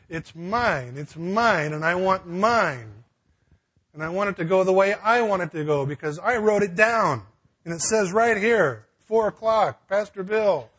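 mock selfish rant; possessive tantrum. Pastor mocks his own control, whining it's mine. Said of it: "Nurse Ratched".

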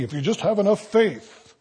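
lightly voiced mock TV faith preacher. Pastor mocking TV preachers for his congregation, light mock voice. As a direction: poke fun at a TV faith promise. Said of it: "those guys on T V".

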